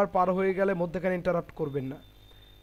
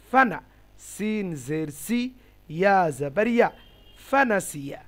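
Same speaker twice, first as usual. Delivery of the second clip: spelling demo; 4 dB louder than usual. Shown as a demonstration. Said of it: "এভাবে পড়বো".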